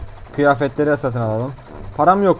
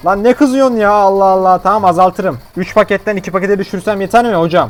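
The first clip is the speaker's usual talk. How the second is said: patient talking back; 3 semitones higher, 4 dB louder than usual. Pretend. Voicing patient answering doctor.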